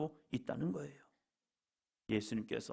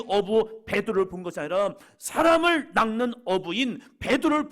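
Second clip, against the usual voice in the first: high, loud, driving sermon delivery; impassioned preaching; 7 semitones higher, 10 dB louder than usual. Real, not acted. Pastor proclaiming Peter's calling to the church, impassioned preaching. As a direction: preach it out with full force.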